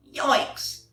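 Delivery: sharp startled yikes; startled yelp. Acted. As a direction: jump with fright. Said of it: "he declared".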